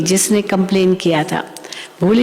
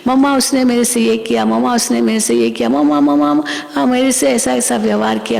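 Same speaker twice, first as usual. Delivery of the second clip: quick, repetitive tattling, only mildly heated; understated retold outburst, words tumbling out; mock angry complaining; faster than usual. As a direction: imitate an upset girl rattling off a complaint. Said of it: "एकदम जोर-जोर से चिल्लाने लगी".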